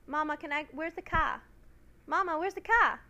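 "car" said without the r, as "kah"; child voice dropping the r in "car"; says w for r. Retold or imitated. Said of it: "I couldn't pronounce my R's".

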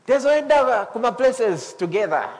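high, scornful "you, spiritual?"; mocking doubter. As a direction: mimic a sneering old drinking buddy. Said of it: "and they're thinking".

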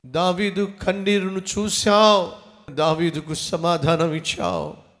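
earnest prayer of thanks over music; fervent prayer. Acted. Pastor leads the congregation in thankful prayer, fervent. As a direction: pray aloud with fervent thanksgiving.

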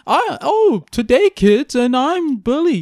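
shrill loud cackling creepy host; high, slow, gleeful evil voice; sadistic relish. Pretend. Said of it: "With a sadistic voice".

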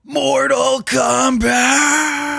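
hushed excited shout, drawn out; whisper yell. Real, not acted. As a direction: yell it but keep it hushed. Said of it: "I did the whisper yell like I'm twelve".

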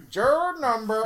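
hammed-up official calling out; mock court official. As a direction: announce it like a juror roll call. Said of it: "then they're like".

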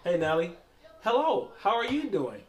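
put-on polite little kid voice. Voicing a polite little niece.

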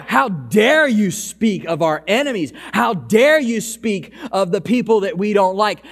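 outraged crowd. Retold or imitated. A preacher voicing the synagogue crowd as enraged. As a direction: preach their outrage with hammed-up anger. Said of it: "They are enraged".

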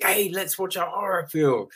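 high-pitched excited mum impression; super-excited mum. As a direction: imitate a mum eagerly pitching movie night. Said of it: "super excited, and she's just like".

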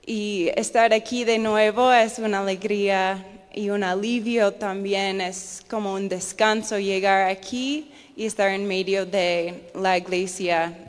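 Spanish with an American accent; an English speaker's Spanish, American accent. Real, not acted. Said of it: "mi español ha fallado un poco".

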